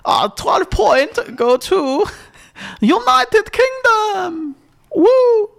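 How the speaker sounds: very slow, high Austrian points announcement; comic Austrian presenter, high and drawn out; Austrian accent. Acted. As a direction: stretch it out in a hammy Austrian accent. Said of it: "now do Austria".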